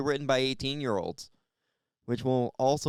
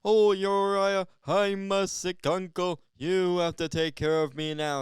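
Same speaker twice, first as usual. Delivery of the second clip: sick uncle; 5 semitones higher than usual. Acted. Ailing uncle pleading with his nephew to take care of him, plaintive. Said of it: "like a sick uncle coming up to me".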